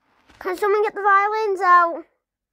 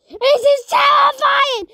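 terrified; 6 semitones higher, 5 dB louder than usual. Real, not acted. Scared reaction to horror video.

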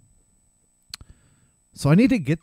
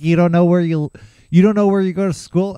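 incredulous cops; 3 semitones higher, 6 dB louder, faster than usual. Retold or imitated. Cops disbelieving, loud.

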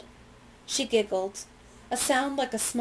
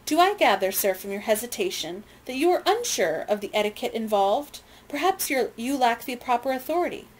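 haughty challenge; 3 semitones higher than usual. Acted. Lady haughtily challenges officer.

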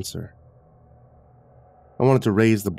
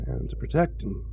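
higher, gossipy character voice, rising and dropping; chatty old retiree; 4 semitones higher than usual. A narrator's reading. Retiree tells visitor of the old woman, chatty. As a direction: recount the tragedy like a rambling neighbour.

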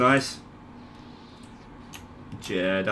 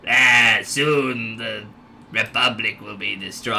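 attempted lower evil overlord voice; Sidious; 4 semitones lower than usual. Gamer attempting the Star Wars villain, lightly evil low voice. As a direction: try a low, menacing villain. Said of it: "I'm trying to come with Sidious".

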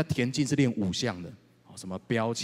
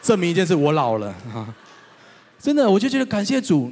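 laughing joke; 7 semitones higher, 10 dB louder than usual. Real, not acted. Self-mocking joke with laugh.

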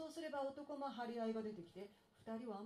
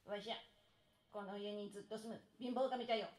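lightly voiced creaky old god; creaky wise old man; 3 semitones lower, faster than usual. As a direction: croak it like an ancient house god. Poverty god introduces himself.

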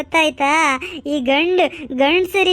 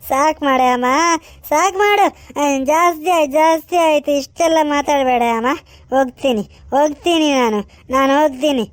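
hurt son; 4 semitones lower than usual. Acted. Son leaving, lower voice.

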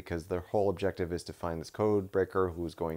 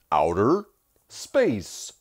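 Kylo Ren voice; 8 dB louder, much slower than usual. Retold or imitated. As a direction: imitate his sexy voice. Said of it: "Especially when he goes".

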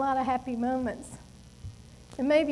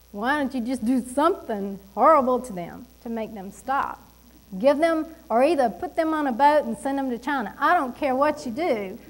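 retold complaint to God; 3 dB louder than usual. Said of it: "is actually what I was saying".

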